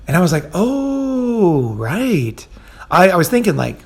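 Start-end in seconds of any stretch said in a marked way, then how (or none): 0.5-2.5 dawning realization. Retold or imitated. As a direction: let it slowly dawn on you. Acted sudden realization of the crowding.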